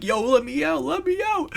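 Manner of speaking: high-pitched imitation of a kid banging to get out; trapped kid yelling. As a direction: squeak out a panicked plea from inside the locker. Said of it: "He's like".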